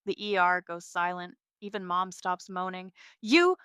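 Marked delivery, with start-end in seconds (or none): 3.2-3.5 high, loud shaken disbelief; stunned, voice jumping up; shaking voice. A narrator's reading. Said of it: "Dad's voice shakes".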